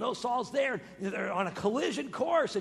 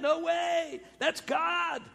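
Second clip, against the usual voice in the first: emphatic proclaim; 9 semitones higher, 4 dB louder, much slower than usual. Real, not acted. Preacher's emphatic declaration.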